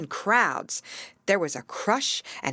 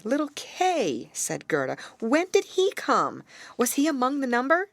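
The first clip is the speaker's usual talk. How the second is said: higher eager questioning; eager Gerda; 7 semitones higher than usual. Acted. Gerda eagerly asks the raven about Kay, higher. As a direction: press for news of Kay.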